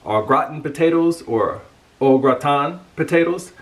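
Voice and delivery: au gratin first American ah GRAH-tin, then French oh grah-tah; both pronunciations. Shown as a demonstration. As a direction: switch au gratin from English to French. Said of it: "two pronunciations".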